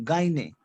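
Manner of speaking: "Gyne" as gah-nyay, with French GN; model French pronunciation. Shown as a demonstration. Teacher has class repeat after her, model French pronunciation. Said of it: "Repeat after me".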